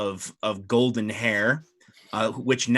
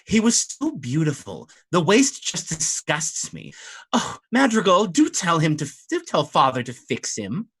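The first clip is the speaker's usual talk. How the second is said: cross mermaid; 5 semitones higher than usual. Acted. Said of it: "gets the cross look on her face and says".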